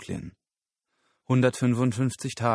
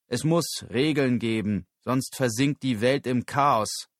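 raised, emphatic speech to an audience; firm public speaker; 3 semitones higher, 4 dB louder than usual. Acted. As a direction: state the policy firmly. Moore spricht vor Publikum. (bestimmte Rednerstimme)

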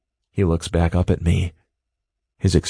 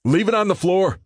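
through his teeth; 12 semitones higher than usual. A narrator's reading. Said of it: "Reese says through his teeth".

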